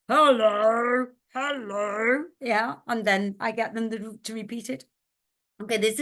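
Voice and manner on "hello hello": lightly squeaked drawn-out hellos; squeaky voices. Acted. Teacher as squeaky voices on the branches, lightly squeaky. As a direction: give hello a bit of a squeak. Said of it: "Squeaky voices on the branches".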